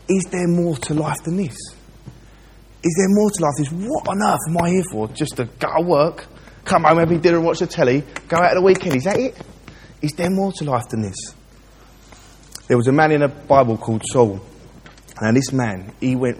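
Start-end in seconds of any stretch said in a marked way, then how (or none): 0.1-11.1 higher, softer, wondering aloud; his old searching self. Retold or imitated. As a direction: quietly ask what life is for. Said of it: "I was asking questions like this".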